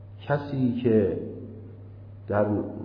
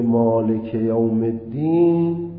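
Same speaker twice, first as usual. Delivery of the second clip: non-Arab accent; 4 dB louder, slower than usual. Shown as a demonstration.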